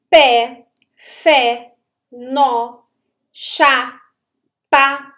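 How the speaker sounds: "pé, fé, nó, chá, pá" each punched as one strong beat; strong stressed monosyllables. Shown as a demonstration. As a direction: hit "pé, fé, nó, chá, pá" singly, with pauses between. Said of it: "a pronúncia é mais forte".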